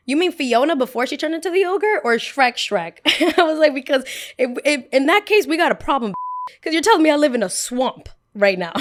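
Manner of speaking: high, loud, laughing retort; sassy comeback. Retold or imitated. Girl mocked as Shrek fires back at the boys, high loud laughing sass. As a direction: fire back half laughing.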